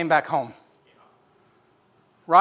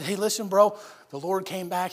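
soothing reassurance; 5 dB quieter than usual. Acted. Sisters comfort sick Lazarus at bedside.

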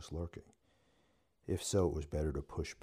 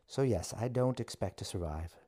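angry; 5 semitones higher, 3 dB louder than usual. A narrator's reading. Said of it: "Anger entered her voice".

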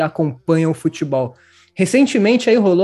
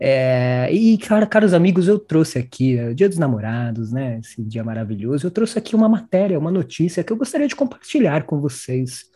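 sultry narrator; 3 semitones lower than usual. Pretend. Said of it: "tô ficando constrangido com essa sua voz aí".

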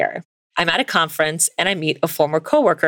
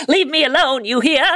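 dramatic fifties voice; 11 semitones higher than usual. Acted. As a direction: play it like a nineteen-fifties TV actress. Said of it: "I love your dramatic nineteen fifties voice".

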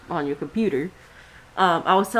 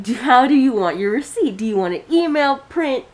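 exaggerated repeat; 2 semitones higher than usual. Cashier repeating herself to old man, exaggerated enunciation. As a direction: repeat it with strained patience. Repeating the question after being misunderstood.

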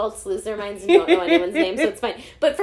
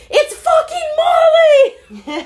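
high, drawn-out full-volume shriek; retold scream; 11 dB louder, much slower than usual. Teacher alone in car suddenly remembers the name, screaming. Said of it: "Like, screamed it".

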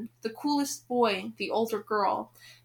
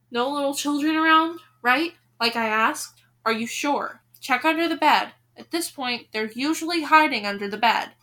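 raised, insistent check with the audience; louder, pointed questioning; mock suspicion; 3 semitones higher, 5 dB louder than usual. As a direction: make sure no little ones are hiding. Narrator checks with listeners for children.

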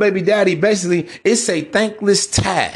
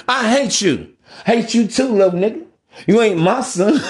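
mock kid shouting; 4 semitones higher than usual. Kid and a rapper quoted.

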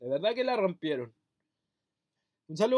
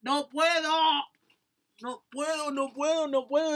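wind knocked out; 6 semitones higher, 7 dB louder, slower than usual. Real, not acted. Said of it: "me quedé sin aire".

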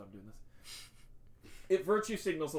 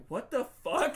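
high, louder mock outrage; mock pissed off; 9 semitones higher, 5 dB louder than usual. Host retelling Bobby spotting the skaters, mock pissed off. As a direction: play up the indignant disbelief, pitch jumping. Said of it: "it's like he's pissed off".

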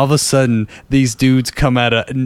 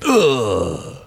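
mock grunt; 2 semitones lower than usual. Imitates climax sound.

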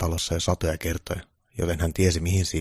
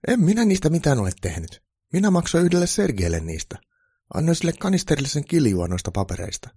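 high, louder troll character voice; troll applicant, defensive; 10 semitones higher, 5 dB louder than usual. A narrator's reading. Troll applicant explaining fake papers to Santa, high defensive voice. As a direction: protest in a raised, lively troll voice.

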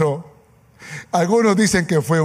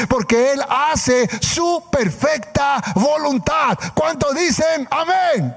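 rousing preaching. Acted. Preacher rallying the congregation to declare trust, rousing preaching. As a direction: preach it up, stretching the final words.

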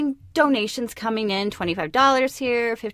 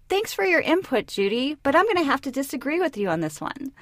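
polite brush-off; 4 semitones higher than usual. Retold or imitated. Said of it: "respond with an alternative".

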